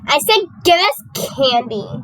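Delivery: lightly mocking diva demand; a hint of bratty imitation, slowed down; mimicking the diva. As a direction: quote the bossy girl, drawn out. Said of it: "that she just said".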